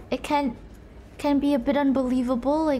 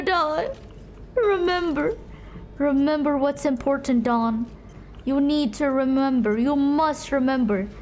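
mock solemn reminder. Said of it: "mock solemn urging, repeated remember".

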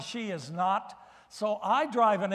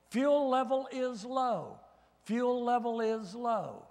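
female car warning voice; 3 semitones higher, slower than usual. Retold or imitated. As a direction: imitate a car's robotic fuel warning. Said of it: "a little Asian voice say to me, a female voice".

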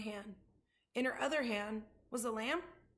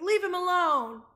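high, loud, forceful yell; protesting shout; 7 semitones higher, 11 dB louder than usual. A narrator's reading. Abilene orders the boys off her rabbit, shouting. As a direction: shout to make them stop. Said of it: "shouted Abilene".

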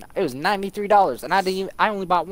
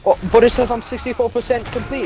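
higher and louder, whining; pitched-up whiny objection; whiny protest; 7 semitones higher, 4 dB louder than usual. Retold or imitated. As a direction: plead like a kid caught out.

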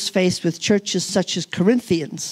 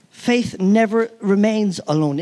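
"never" hit hardest, the rest even; stress on never. Shown as a demonstration. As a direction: repeat it, punching "never".

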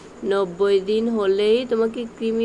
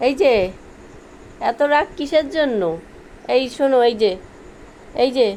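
yelling across the room; 3 semitones higher, 4 dB louder than usual. Real, not acted. Calling the pet from afar.

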